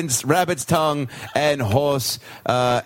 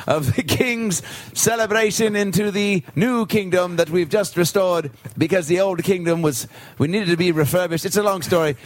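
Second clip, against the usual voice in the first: court servant; 3 semitones higher than usual. Acted. Servant continues announcing.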